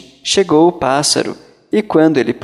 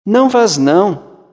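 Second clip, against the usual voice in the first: frightened wife; 6 semitones higher, 3 dB louder than usual. A narrator's reading. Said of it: "disse a mulher".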